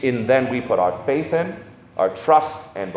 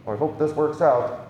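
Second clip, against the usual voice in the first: mock wishful hope; 5 semitones higher than usual. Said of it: "I don't mean".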